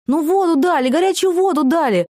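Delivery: high, loud eager chorus on воду; excited clamour. A narrator's reading. Inmates pleading with the guard, high and loud. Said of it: "загомонили все".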